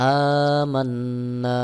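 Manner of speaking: আমান্না with a held nasal ন্ন and the last vowel drawn; ghunnah and one alif stretch. Shown as a demonstration. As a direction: hum the ন্ন, then draw the আ. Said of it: "ওয়াজিব গুন্না হবে এবং এক আলিফ টান হবে". (গুন্নাহ সহ আমান্না)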